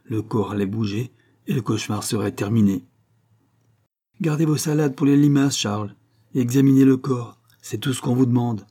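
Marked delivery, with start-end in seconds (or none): 4.2-8.6 higher and louder, curt rebuke; sharp retort. Acted. Judge snapping back at the coroner, raised sharp retort. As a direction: cut the coroner short, raised. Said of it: "rétorqua le juge".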